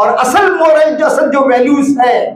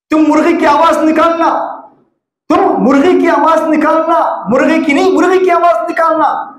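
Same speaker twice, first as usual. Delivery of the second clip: higher-pitched, insistent order; mildly acted bossy instruction, voice raised in pitch; acted command; 4 semitones higher than usual. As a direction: play the owner laying down orders. Owner orders the rooster about.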